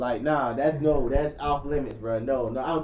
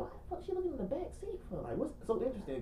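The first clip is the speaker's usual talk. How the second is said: inner wondering, high; 8 semitones higher, 12 dB quieter, faster than usual. Retold or imitated. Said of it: "I'm wondering".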